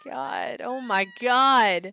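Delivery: slow, loud stunned oh my god; drawn-out gasp of disbelief; real shock, stretched out. Real, not acted. Shock at sudden game event.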